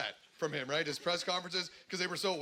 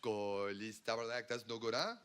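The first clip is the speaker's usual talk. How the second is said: low, soft timid mutter; a cowering Mountie muttering from the corner; meek Mountie; 6 semitones lower, 6 dB quieter than usual. Acted. Mounties in the corner mutter, low and soft.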